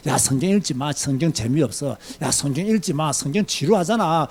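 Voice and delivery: low, hushed tempter's voice; whispering Satan. Acted. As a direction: murmur it softly, coaxing them away. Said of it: "사탄이 여러분에게 속삭이는 거예요". (낮고 작게 속삭이는 사탄 목소리)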